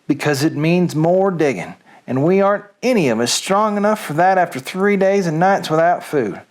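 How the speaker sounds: put-on story read aloud in a light Southern accent. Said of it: "Reading Things with a Southern Accent".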